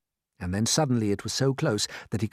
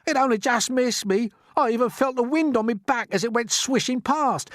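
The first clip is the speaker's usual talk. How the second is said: whiny earthworm; 12 semitones higher, 4 dB louder than usual. Acted. Earthworm complaining after near miss.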